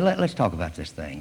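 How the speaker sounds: low, gentle persuasion; calm and conciliatory; soft, soothing. Acted. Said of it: "he spoke in a soft, soothing voice".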